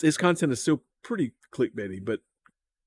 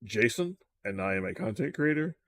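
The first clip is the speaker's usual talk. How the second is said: softer, mock-professional intro; imitating a polite corporate YouTuber; 5 dB quieter than usual. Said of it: "when you're trying to be professional".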